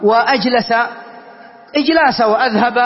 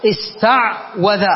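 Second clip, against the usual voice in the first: slow demo; 3 semitones lower, much slower than usual. Shown as a demonstration. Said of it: "العين ساكنة والواو مفتوحة متحركة".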